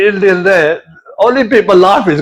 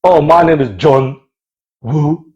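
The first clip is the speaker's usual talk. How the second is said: Chinese guy introducing himself; 9 semitones lower than usual. Retold or imitated. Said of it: "every time I met them".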